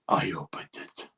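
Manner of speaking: low, breathy-quiet, guilty admission; sheepish little puppy. Retold or imitated. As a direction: own up meekly like a caught puppy. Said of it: "like a little puppy".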